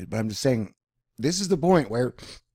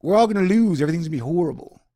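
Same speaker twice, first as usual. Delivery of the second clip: loud, high wail that tapers off; mock despair; 7 semitones higher, 7 dB louder than usual. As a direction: whine like a hammed-up defeatist. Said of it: "how people have just given up".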